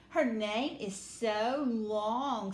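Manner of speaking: mocking schoolgirl. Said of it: "said Jo".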